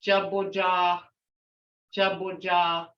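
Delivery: Jaboja with long open ah vowels. Shown as a demonstration. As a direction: stretch both ahs in Jaboja. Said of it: "I hear a ah, long ah".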